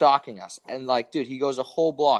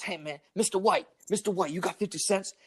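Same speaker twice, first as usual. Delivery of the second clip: imitating a street beggar, pitched up; lightly voiced pleading for spare change; higher-voiced wheedling impression of a stranger; mock panhandler; 5 semitones higher, 4 dB quieter than usual. Imitates man begging for change.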